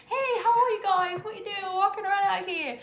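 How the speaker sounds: high, loud cartoon snake greeting; friendly chatty snake. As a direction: play an oblivious, over-friendly snake in a high voice. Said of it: "Snakes are like".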